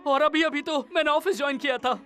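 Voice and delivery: moved to tears, pitch rising; halting, overwhelmed son near crying; tearful, choked up. Acted. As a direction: well up with emotion as you reminisce. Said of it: "तुम रो क्यों रहे हो".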